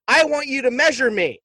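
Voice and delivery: mild mock of an eerie child; creepy boy voice. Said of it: "his voice is so demonic and odd".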